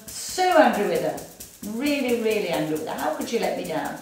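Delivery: building frustration at her; voiced anger. Shown as a demonstration. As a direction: vent it quickly. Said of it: "And then collarbone".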